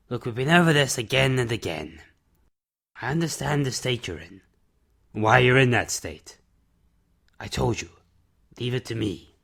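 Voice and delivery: a hint of a weary man owning up to his past; subdued confession; Mister Summers. Narrator voices Mister Summers.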